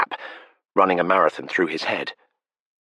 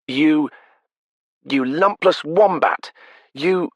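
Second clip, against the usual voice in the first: high, loud belting insult; belted out; 11 semitones higher, 4 dB louder, slower than usual. Acted. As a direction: throw it into the wind at full voice. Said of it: "belted out".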